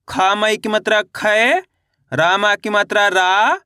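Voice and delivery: slow chant, last syllable stretched and rising; drawn-out, lilting matra drill; spelling drill recitation. Shown as a demonstration. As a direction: spell it out for pupils to repeat.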